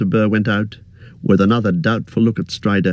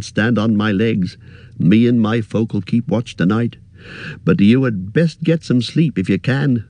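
higher, fussy innkeeper voice; chatty innkeeper chattering on, pitched up; 3 semitones higher than usual. Acted. Innkeeper warning hobbit guest, higher fussy voice.

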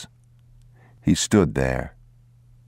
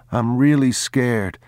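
put-on slow, much higher boy's voice, fearful; a little boy's fear rising; boy confessing real fear to Papa; scared child; 7 semitones higher than usual. A narrator's reading. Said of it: "boy frightened in ruined house".

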